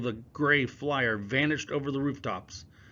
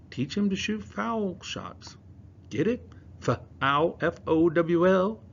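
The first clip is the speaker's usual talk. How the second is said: joking; 8 semitones higher, 4 dB louder, slower than usual. Acted. Dorothy joking.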